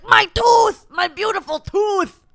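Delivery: high, loud, anguished cry; cartoon dog. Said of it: "there's the dog who's like".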